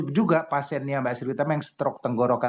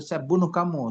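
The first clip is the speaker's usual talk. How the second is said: higher pitch, mild mock threat; mock yell; 4 semitones higher than usual. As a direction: imitate a yell at half strength. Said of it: "diteriakin bolak-balik".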